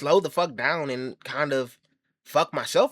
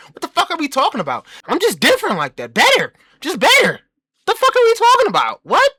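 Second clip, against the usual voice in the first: cocky shout; 13 semitones higher, 7 dB louder than usual. Acted. Boasting rant, shouting.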